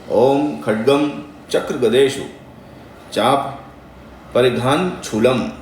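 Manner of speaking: measured, chant-like recitation of a mantra; slow devotional Sanskrit intoning. Shown as a demonstration. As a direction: intone each syllable carefully like a priest. Recites dhyanam verse.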